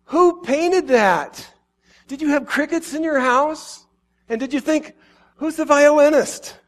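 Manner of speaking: pleading wonder. Acted. Jesus pleading with his children, rising to loud awe. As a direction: rise from a whisper to delighted wonder. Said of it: "wanting to explain his side".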